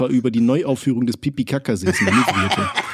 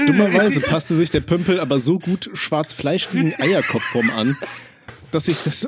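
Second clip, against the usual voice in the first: laughing while reading; 3 semitones higher than usual. Real, not acted. Reader breaks up while reading.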